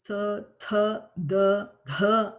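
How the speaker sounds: "th, th, the, th" as four separate sounds, alternately plain and aspirated; four subtle expressions. Shown as a demonstration. Teacher shows students four variations, "th, th, the, th" plain then aspirated. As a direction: say "th, th, the, th" apart, adding an H puff to every second one. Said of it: "each of them has four subtle expressions".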